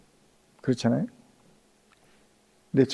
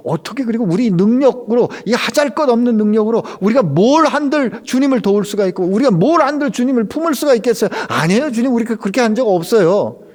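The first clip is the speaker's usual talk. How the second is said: louder, higher flustered denial; flustered protest; 8 semitones higher, 6 dB louder than usual. Retold or imitated. Believers flustered, protesting to the Lord, loud and high. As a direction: protest your unworthiness, rattled. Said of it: "당황해하면서 이렇게 대답하겠죠".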